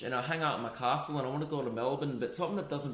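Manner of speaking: put-on quick, amateur Scottish accent; badly faked Scottish accent; Scottish accent attempt. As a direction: ramble in a rough Scottish accent. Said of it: "You sound like a disabled Scotsman".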